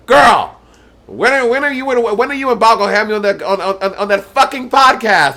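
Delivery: put-on high, eager girly voice, quick and pushy; imitating Bianca. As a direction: nag like Bianca begging for a spot. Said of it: "Bianca texts and be like".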